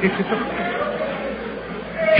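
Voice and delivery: slow, breathy whispered offer; hushed slow whisper. Retold or imitated. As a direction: whisper it slowly, savouring each word. Repeated offer, drawn out.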